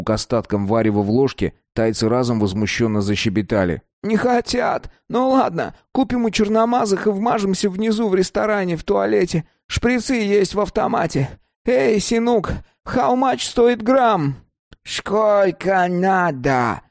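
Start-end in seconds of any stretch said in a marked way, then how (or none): 4.0-14.4 put-on much higher, lively young junkie voice; young guy's voice. A narrator's reading. 14.8-16.8 put-on Thai man with a mild broken accent, slow and higher; broken foreign accent. A narrator's reading. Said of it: "на ломаном английском спросил таец".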